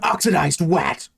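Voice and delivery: mock movie meme shouts; meme line quotes. Listing the movie's meme moments, mock shouts. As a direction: belt the memes like the movie. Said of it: "those meme moments".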